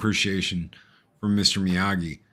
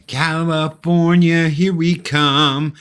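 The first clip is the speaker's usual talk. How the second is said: mock excited; 7 semitones higher, 5 dB louder, slower than usual. Mom all excited.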